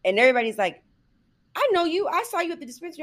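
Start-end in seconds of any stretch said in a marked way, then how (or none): 1.5-3.0 much higher, nosy sing-song; imitating gossiping neighbours. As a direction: play the smug busybody. Townspeople accusing her.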